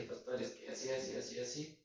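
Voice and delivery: whispered, hesitant stammer to the pastor; almost under his breath, fumbling for words; hushed, unsure excuse. Retold or imitated. Young man fumbling an excuse to his pastor, whispered and hesitant.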